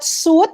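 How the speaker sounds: "suit" said as soot with a long oo; no W glide in "suit", just soot; contrasted word. Shown as a demonstration. Teacher contrasting suit with sweet, long oo. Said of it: "It's not".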